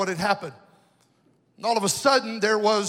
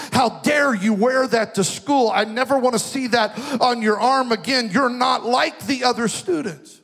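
scolding teacher. Retold or imitated. Teacher scolds pointing finger.

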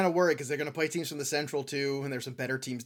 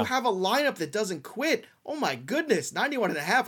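higher, lively hype for the roster; excited; 5 semitones higher than usual. Real, not acted. Host pitching the White Sox over, excited. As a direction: sell it like a fan. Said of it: "I'm finally excited".

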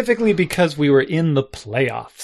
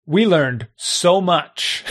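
slow gloat; 3 semitones higher, much slower than usual. Retold or imitated. Opponents gloating, retold.

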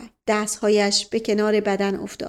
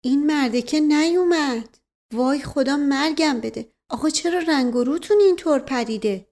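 lightly voiced woman, higher pitch; fretting woman figure; 5 semitones higher than usual. Woman alarmed at the uncle's pale face, lightly voiced and fretting. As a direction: fuss with concern, pitch raised.

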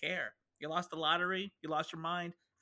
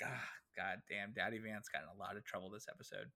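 mock lament; 4 semitones lower, 6 dB quieter than usual. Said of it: "it's like".

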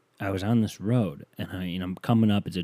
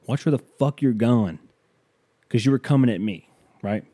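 retold yelling. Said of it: "he's yelling at me now".

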